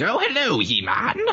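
very high cartoon villain voice. Wishing he had walked in using his cartoon Skeletor voice. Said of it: "I still wish he walked in with his cartoon Skeletor voice".

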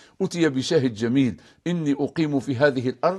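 normal talking voice

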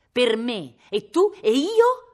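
ferocious, very loud, very slow drawn-out yell. Cosimo yells at Viola with a ferocious look, yelling fiercely. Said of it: "urlò Cosimo con uno sguardo così feroce".

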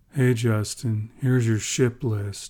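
low, sulky, sullen, grudging voice. Someone behind his chair hands over a ship list, sullen. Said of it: "said a sullen voice from behind him".

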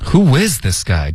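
stress on is, not on guy. Correcting students' english question, stress on the word is. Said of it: "重音是is 而不是guy".

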